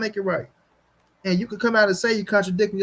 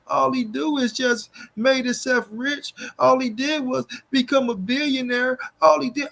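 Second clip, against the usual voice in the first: mocking Floyd defenders; 3 semitones higher than usual. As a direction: ham up the naive fan who can't see faults. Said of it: "they wanna say Floyd's a black man".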